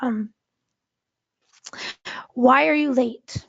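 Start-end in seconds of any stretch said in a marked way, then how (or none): 2.3-3.4 "Why are you late?" asked evenly, with "Why" unstretched; emphasis within the question. Shown as a demonstration. Teacher demonstrating emphasis, "Why are you late?" asked evenly. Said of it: "by emphasizing different words".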